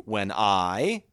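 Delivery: "When I" with weight on "I"; light "When", stressed "I"; iambic stress. Shown as a demonstration. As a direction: lean on the second word of "When I". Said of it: "unstressed, stressed".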